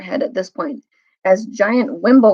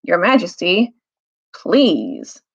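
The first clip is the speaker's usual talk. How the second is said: sleepy voice; much slower than usual. Acted. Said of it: "thick, sleepy voice".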